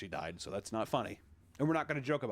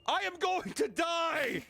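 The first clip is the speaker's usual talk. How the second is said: high, slow hammed-up yell; mock yell; 14 semitones higher, much slower than usual. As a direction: wail it like a doomed man, hammed up.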